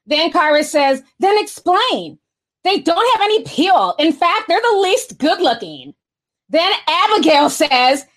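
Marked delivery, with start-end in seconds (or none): 1.2-6.0 put-on Valley Girl voice. Streamer reading a chat message as a Valley Girl. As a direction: stretch it out like a bored rich girl. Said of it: "I got my Valley Girl voice on".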